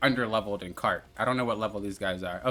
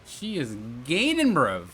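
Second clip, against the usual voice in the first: slow, high excited woo; urgent as she closes in; excited alarm; 9 semitones higher, slower than usual. Real, not acted. Racer alerts viewers, excited as a rival closes in.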